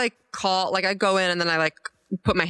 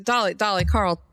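put-on Southern accent. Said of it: "wow, I just went Southern".

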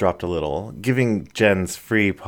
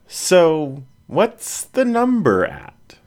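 much higher, slow playful prodding; a mischievous dog coaxing a friend; sly collie voice drawing it out; teasing border collie; 10 semitones higher, slower than usual. A narrator's reading. Annie teases Jen.

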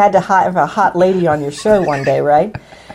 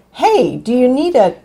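higher-pitched, lightly voiced mother on the phone; mother-in-law impression; 5 semitones higher than usual. Mother-in-law calls Frank offering a gift, light impression. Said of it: "do the impression while you're at it".

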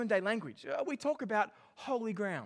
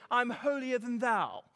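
slow, pompous mock English accent; 2 semitones higher, slower than usual. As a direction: put on a holier-than-thou English accent. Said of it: "say it in an English accent".

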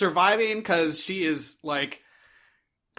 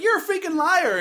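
mock screaming; 11 semitones higher than usual. Imitating Megan accusing Josh, mild mock scream. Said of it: "screaming or whatever".

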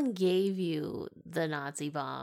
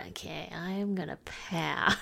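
whispered pass; 6 dB quieter, slower than usual. Retold or imitated. Imagined reply to stabbing knife.

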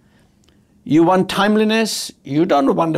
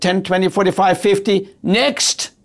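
curt teller; 3 semitones higher than usual. Retold or imitated. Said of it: "as if she was angry that I was there".

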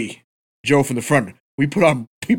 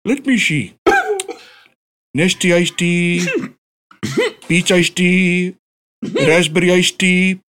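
imitating the clerk; 3 semitones higher, slower than usual. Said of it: "And then he goes".

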